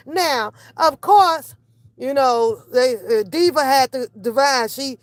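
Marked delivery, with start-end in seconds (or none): none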